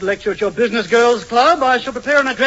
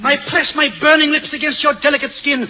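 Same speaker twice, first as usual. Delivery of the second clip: suave lover; 4 semitones higher than usual. Acted. To Dolores, a hammy matinee-idol lover greeting. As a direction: lay the charm on thick like a matinee idol. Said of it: "feel like Walter Pidgeon".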